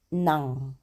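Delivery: Nang said with a clear final ng; letter name nang. Shown as a demonstration. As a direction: say Nang ending on the velar ng. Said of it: "We call it nang".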